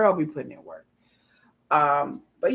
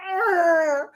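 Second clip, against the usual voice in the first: higher, playful battle growl; mock growl; 7 semitones higher, 4 dB louder than usual. Riled-up commenter mid-battle, mock growl. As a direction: growl like you're itching to fight. Acting out comment section aggression.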